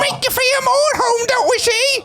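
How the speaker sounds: high, hammed-up British accent; mock British accent. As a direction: put on a silly posh English voice. Mock British voice for English guest.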